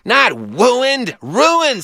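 "wooined" then "ruined" with clear r, high; correcting the r. Retold or imitated. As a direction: contrast the w and the r. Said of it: "said Glenn".

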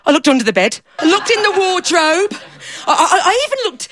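a lightly voiced simple fella, eager and proud; daft fella. Storyteller playing the fella who lost himself, lightly voiced. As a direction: speak as the muddled daft man, pleased with himself.

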